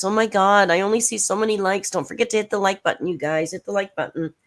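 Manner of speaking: whiny plea for likes, brisk; mock begging. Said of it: "she starts begging for likes".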